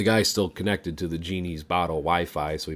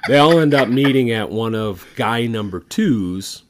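laughing; 5 semitones higher, 10 dB louder than usual. Real, not acted. Laughing while telling.

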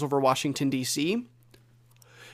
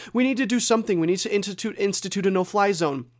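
pitched higher, mock-tearful pleading; mocking tearful plea; 4 semitones higher, faster than usual. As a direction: parody a weepy TV guest begging for action. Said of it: "they're crying and sobbing on national television saying".

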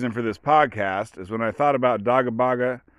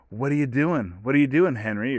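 put-on baby talk; 3 semitones higher than usual. Owner greeting the dog Henry in baby talk. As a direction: coo it up high at your pet. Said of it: "do it in an elevated baby talk voice".

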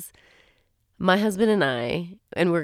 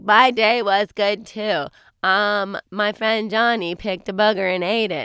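put-on kid voice; 3 semitones higher, 4 dB louder than usual. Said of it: "our kids are like".

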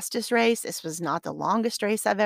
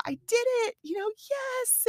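triumphant. Retold or imitated. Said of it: "And I said".

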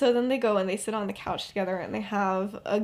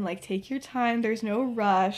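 softer, slow, soothing advice; gently reassuring; 4 dB quieter than usual. Retold or imitated. Woman comforting a boy afraid of change, gently reassuring. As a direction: ease them gently, without hurry.

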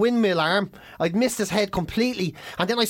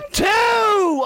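very high, loud shout; referee's count; 11 semitones higher, 5 dB louder than usual. Retold or imitated. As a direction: belt out the count like a ref.

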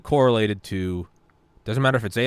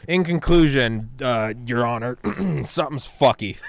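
deliberate, raised-pitch mock courtroom conclusion; mock formal summation; 3 semitones higher than usual. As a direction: deliver it like a joke closing statement. Mock closing statement to a judge.

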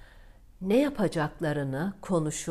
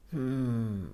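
put-on worried young glassmaker. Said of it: "kara kara düşünmüş".

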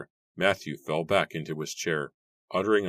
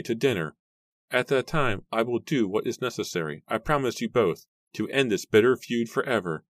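put-on high, solemn old man; 7 semitones higher, 4 dB louder than usual. A narrator's reading. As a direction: promise gravely as an old father. Matthew's voice.

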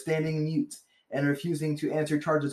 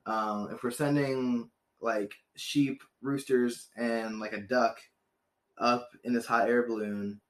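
lazy American-sounding Frenchman; 4 semitones lower than usual. Retold or imitated. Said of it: "so he talks with an American accent".

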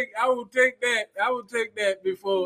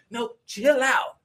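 firm lady cop; 2 semitones higher, much slower than usual. Retold or imitated. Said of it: "ain't nobody finna override this black woman".

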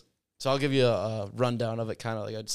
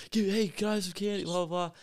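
put-on much higher kid call for candy; trick-or-treater; 8 semitones higher, slower than usual. Coach imitating kids asking for candy, high-pitched. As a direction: pipe up like a kid at the door.

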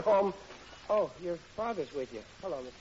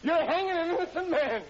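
desperate cry; 9 semitones higher, 5 dB louder than usual. Acted. Riley's nightmare courtroom plea.

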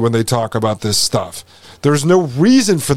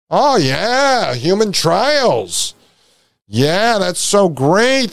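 sarcastic; 4 semitones higher, much slower than usual. Real, not acted. Sarcastic reply to human trials.

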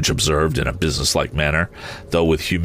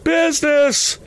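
very high, drawn-out spectral exclamation; outraged ghost cry; 3 dB louder, slower than usual. A narrator's reading. Ghost rejecting Scrooge's praise, outraged high cry. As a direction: cry the word out high, appalled. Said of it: "cried the ghost".

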